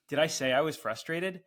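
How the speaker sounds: mock offended customer asking; indignant customer. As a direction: snap back, offended.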